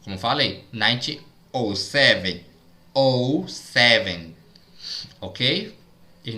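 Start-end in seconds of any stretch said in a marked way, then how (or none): 0.7-4.3 "oh seven" with the zero said like the letter O; teacher showing zero read as O. Shown as a demonstration. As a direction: say "oh seven", slowly, with the vowel O for zero. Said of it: "o zero é pronunciado como se fosse a vogal O".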